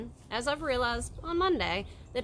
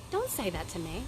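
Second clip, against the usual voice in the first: rising indignation; 4 semitones higher, 3 dB louder than usual. Real, not acted. Host scolding a defeatist friend, rising to a high loud scold. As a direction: push back harder with each line. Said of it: "Now I'm getting crazy".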